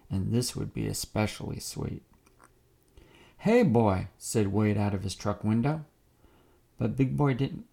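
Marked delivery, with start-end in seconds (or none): 3.4-4.1 calling out. Acted. Wade calls out from truck.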